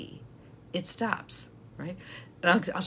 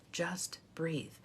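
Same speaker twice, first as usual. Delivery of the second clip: a calming whisper to someone quaking; hushed reassurance to breathe; 7 dB quieter than usual. Shown as a demonstration. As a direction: whisper it, soothing. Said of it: "It's okay. Breathe".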